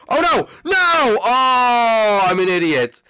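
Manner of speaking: high, loud cry of self-blame; real dismay. Real, not acted. Killed by his own blunder, crying out in dismay. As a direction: wail at your own blunder.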